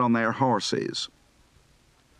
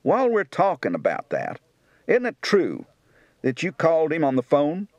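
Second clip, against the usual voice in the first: Kentucky accent; 3 semitones higher than usual. Shown as a demonstration.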